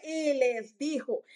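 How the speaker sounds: slow, weighty quoting of scripture; authoritative. Acted. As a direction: give each word weight, slowly. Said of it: "Es una autoridad".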